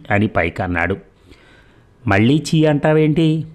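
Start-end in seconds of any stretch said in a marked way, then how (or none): 2.1-3.5 angry. A narrator's reading. Heated train quarrel.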